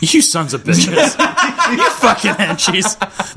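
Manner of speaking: slow, laughing mock villain; villain boss voice. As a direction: scold the henchmen like a boss. Villain boss scolding henchmen.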